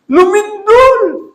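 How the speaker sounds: high, loud, slow announcement; dramatic reveal. Acted. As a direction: stretch it out for awe. Earthquake reveal in sermon. (madramang pagbubunyag)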